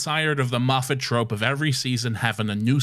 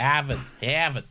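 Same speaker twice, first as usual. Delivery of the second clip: Boston accent; 2 semitones higher than usual. Shown as a demonstration. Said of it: "Boston accent".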